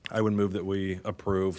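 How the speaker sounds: talking while chewing ice; words round a mouthful of ice; mouth full. Real, not acted. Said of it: "sorry, I'm chewing on ice".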